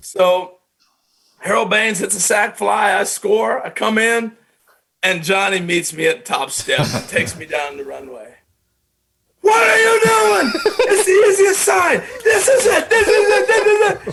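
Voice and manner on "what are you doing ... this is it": put-on scream, higher and louder. Retelling how the manager reacted at the top step: imitating someone screaming. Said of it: "And he's screaming at me".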